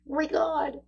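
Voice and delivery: high, soft squeal of giddy disbelief. Acted. Reader voicing the giddy listener she teases, giddy high squeal. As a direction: imitate someone secretly giddy, voice up high. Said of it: "Come on, you're giddy".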